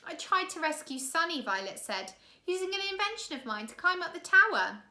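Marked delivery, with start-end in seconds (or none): 0.1-1.4 put-on higher girl's voice; a light young girl voice. Violet explaining her failed rescue, higher and earnest. 2.5-4.8 put-on higher girl's voice; a light young girl voice. Violet explaining her failed rescue, higher and earnest.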